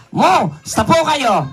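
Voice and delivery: slow broken "mu-, sta po kayo"; syllable by syllable. Shown as a demonstration. Host teaching puppet, slow syllables. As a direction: spell out "Ka-, mu-, sta" slowly. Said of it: "gayahin mo ako".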